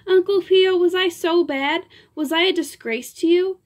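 high, urgent pleading; a penitent actress pleading; anxious pleading. Acted. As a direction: beg him for reassurance. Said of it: "kiss it frantically".

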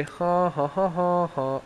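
spoken, spaced-out ha-ha; mock gloating laugh. Gloats about playing Lava Golem.

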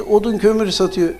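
mildly embarrassed owning-up; sheepish. Acted. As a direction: confess it bashfully. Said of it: "utanarak, sıkılarak".

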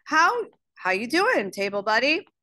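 put-on high, playful boy's hello; lightly voiced schoolboy being chummy; buddy greeting. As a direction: greet a pal with a high, jokey lift. Boy greets his table buddy.

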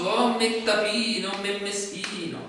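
slow hammed-up whimpering self-pity; mock self-pity. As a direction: feel sorry for yourself, theatrically. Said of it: "Comincio a piangermi addosso". (autocommiserazione teatrale e lenta)

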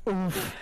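Marshy oof impression. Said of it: "It's my Marshy impression".

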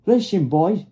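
high, loud fireman's call. A narrator's reading. Fireman calls the boys to listen, loud. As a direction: hail them loudly in a high voice. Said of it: "the fireman called".

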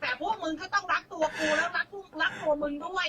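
laughing with a catch in the voice; half laugh, half cry; laughing, near tears. Real, not acted. Guest pleads with the crowd, laughing and near tears.

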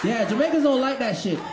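mock American accent; Yankee accent. Comic showing Jamaicans who talk like Yankees, mock Yankee accent. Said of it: "talk to we like them a Yankee".

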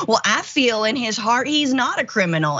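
lightly mimicked Southern accent. Host quoting a MAGA supporter's answer, in a mock Southern accent. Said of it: "I didn't mean to do the Southern accent".

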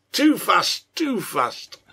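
high, loud burst easing on the repeat; loud mock exclamation. A narrator's reading. Laughing character teases the growing lad.

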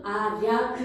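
아, 야, 그 sounded out syllable by syllable; pronunciation demo. Shown as a demonstration. Teacher showing students the final pronunciation, sounded out. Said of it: "최종적인 발음은".

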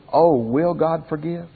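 slow, humble, searching question; pleading. Shown as a demonstration. Preacher voicing repentant people before God, slow and humble. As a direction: ask it slowly, truly unsure of mercy. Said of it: "the attitude of the other people".

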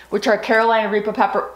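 talking around gum; words slurred by gum in mouth; chewing gum. Real, not acted. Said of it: "I have gum in my mouth".

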